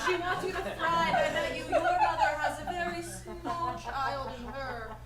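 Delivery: loud, high, laughing theatrical coach; gushing coach. Acted. Drama coach gushing loudly at her nervous student. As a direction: gush over the student like a drama teacher.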